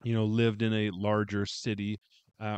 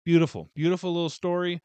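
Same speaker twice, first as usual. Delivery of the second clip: gushing; 7 semitones higher, 9 dB louder, faster than usual. Real, not acted. Reviewer's closing praise of story.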